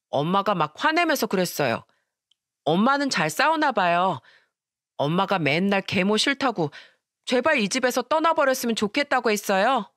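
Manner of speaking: lightly voiced little boy, innocent and curious; child voice. Seven-year-old boy asking grandma innocently, childlike. Son keeps telling grandma.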